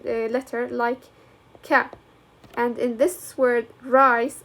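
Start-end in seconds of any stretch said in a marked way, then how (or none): 1.6-1.9 "ka" sounded alone, a hard K with short vowel. Shown as a demonstration. Teacher showing the C in cat, hard C sound. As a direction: isolate "ka" after a pause. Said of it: "I pronounce this C sound".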